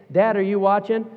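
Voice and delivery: put-on high, loud, pleading child's voice; whiny kid. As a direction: nag like an impatient little kid. Kid nagging dad, voiced.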